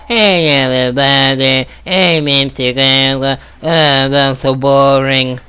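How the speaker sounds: put-on slow, lazy Brazilian accent parody; slow mock Brazilian YouTuber intro. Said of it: "Brazilian accent?".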